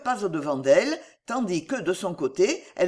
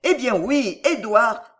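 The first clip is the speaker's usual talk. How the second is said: loud, emphatic confirmation of Édouard; exclaiming; 4 semitones higher, 5 dB louder, slower than usual. A narrator's reading. Denisot confirming Édouard to the uncle, exclaiming. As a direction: exclaim it louder, Édouard hit firmly. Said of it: "s'écria Denisot".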